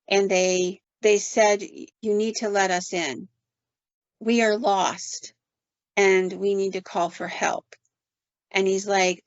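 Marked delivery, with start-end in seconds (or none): 1.6-7.7 slow, measured demand; unhurried, deliberate retold demand; eerie demand. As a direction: spell it out slowly, word by word. Eerie boys demand entry.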